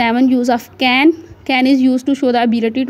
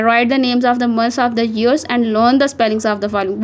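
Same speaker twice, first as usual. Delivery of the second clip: slow task reading; much slower than usual. Acted. Teacher reads task aloud slowly.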